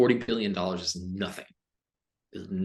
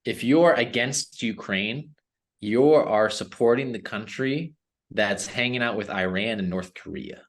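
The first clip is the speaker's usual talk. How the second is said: angry. Real, not acted. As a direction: pound each word out in anger. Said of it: "I just got angry".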